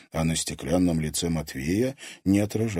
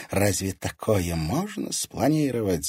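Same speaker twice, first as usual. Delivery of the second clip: usual speaking voice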